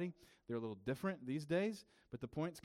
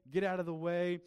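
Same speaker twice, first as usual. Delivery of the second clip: loud, higher commanding shout; 6 semitones higher, 7 dB louder than usual. Retold or imitated. Pastor voicing Jesus driving out demons, loud command. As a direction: order them out with full force.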